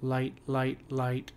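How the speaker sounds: "light, light, light" as three even, separate beats; demonstrating unstressed beats. Shown as a demonstration. Teacher showing students the light syllables, evenly counted. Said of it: "So if I just kinda show you".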